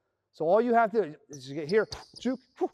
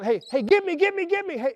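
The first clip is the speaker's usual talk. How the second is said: higher, louder mock call for the ball; player calling for ball; 10 semitones higher, 4 dB louder than usual. Cutter calling to the passer, higher and louder. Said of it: "and you're like".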